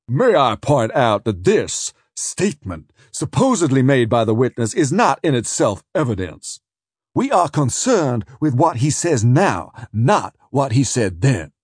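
a barrister rising to object, deliberate; objecting counsel. Acted. Defence counsel objects to the adjudicator, slow and measured.

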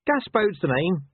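high, slow-stretched, chirpy dog; insanely cheerful bark. A narrator's reading. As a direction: introduce yourself far too cheerfully. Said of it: "with insane cheerfulness".

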